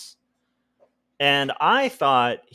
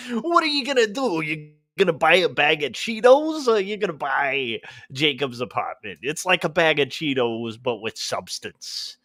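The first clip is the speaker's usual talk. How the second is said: mock pitch voice; 2 semitones higher than usual. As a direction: sell the snack like an ad. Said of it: "that's my voice for that".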